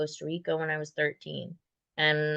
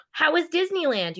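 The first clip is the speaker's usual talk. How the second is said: people asking cheerfully; 10 semitones higher than usual. Retold or imitated. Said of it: "people would go".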